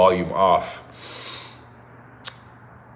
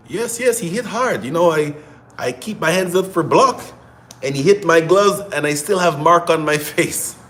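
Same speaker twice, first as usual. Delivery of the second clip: much higher, a badly faked Russian accent with a laugh at the end; clumsy imitation of a Russian boxer's accent; 8 semitones higher than usual. Imitating Bivol answering a reporter in a bad Russian accent. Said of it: "I know that was a bad accent".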